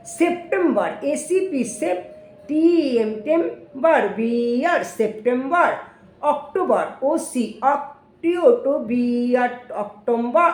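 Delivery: slow classroom spelling chant; patient teacher chanting letters and syllables; spelling drill. Shown as a demonstration. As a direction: spell each month slowly for the class. Teacher repeats month spelling drill.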